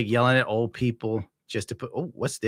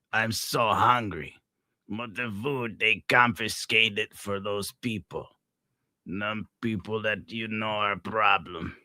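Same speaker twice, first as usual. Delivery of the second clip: slow mock driver voice; 4 dB quieter, slower than usual. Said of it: "I'm gonna be talking like that".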